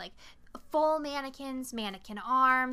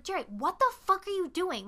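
higher-pitched mock outrage; exasperated demand; 7 semitones higher than usual. Molly confronting frozen Jerry, exasperated.

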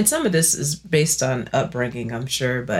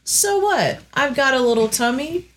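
defiant self-justification; 6 semitones higher than usual. Acted. Argues aloud for keeping carbs.

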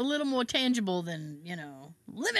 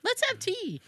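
mock British calm; 10 semitones higher than usual. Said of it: "I'd be like".

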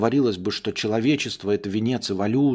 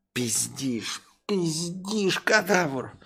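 accusing master; 6 semitones higher, 3 dB quieter, much slower than usual. Acted.

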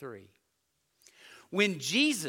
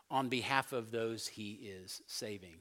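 whisper; 6 semitones lower, 6 dB quieter than usual. Real, not acted. Graphic description of suffering.

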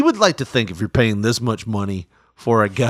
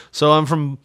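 stuttering; slower than usual. Retold or imitated. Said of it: "he stutters on it".

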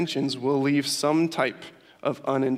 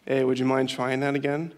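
even, unhurried and polite, as if nothing happened; a mild hint of a patient father; calm; 2 semitones lower than usual. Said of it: "He'd calmly walk up the stairs".

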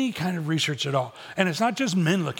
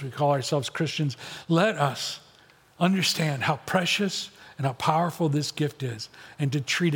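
closing prayer. Acted. Pastor praying over his church, earnest and sincere. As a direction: pray over the congregation, sincere and steady.

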